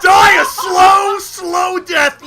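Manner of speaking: slow, drawn-out shouted curse; angry curse. Real, not acted. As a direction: stretch out each word at your killer. Cursing the player who killed them.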